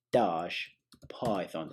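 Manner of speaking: slow, badly faked British accent; terrible British accent. Shown as a demonstration. Tutor finishing a command for viewers, terrible British accent. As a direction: stretch it in a bad British accent. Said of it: "That was a terrible accent".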